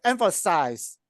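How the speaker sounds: "Emphasize" pronounced clearly, each syllable distinct; clear pronunciation. Shown as a demonstration. Grammarian showing a club speaker the word, clearly pronounced. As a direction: model a clearly articulated "Emphasize". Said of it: "pronounce more clearly".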